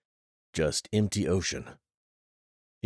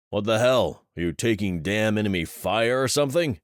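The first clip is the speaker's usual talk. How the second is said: exasperated outburst; 4 semitones higher, 5 dB louder than usual. Acted. Commander reacting to lost soldier.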